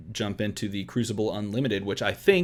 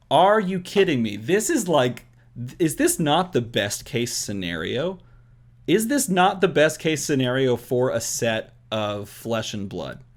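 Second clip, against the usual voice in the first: can't contain the excitement; overexcited babbling; 2 semitones higher than usual. Real, not acted. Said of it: "I hope you see I'm super excited about this".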